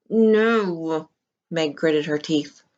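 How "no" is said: defiant no. A narrator's reading. Meg refuses, holding tight.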